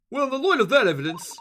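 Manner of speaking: hammed-up Australian detective, badly faked accent; bad put-on accent. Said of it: "it's bad".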